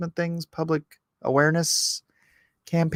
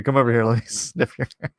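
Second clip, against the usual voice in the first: creepy Biden impression; 4 semitones lower, faster than usual. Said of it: "If you're gonna do a Joe, a Biden impersonation".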